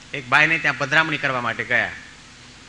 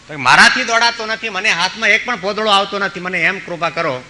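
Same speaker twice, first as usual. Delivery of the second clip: raised, complaining plea; loud pleading; 4 semitones higher, 5 dB louder than usual. Retold or imitated. Old widow pleading with the king, raised and complaining. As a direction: cry out her hardship.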